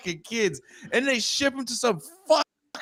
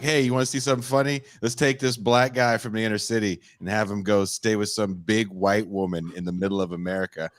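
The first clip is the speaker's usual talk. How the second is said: TV producer pitch; 12 semitones lower, faster than usual. Retold or imitated. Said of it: "where they'd be like".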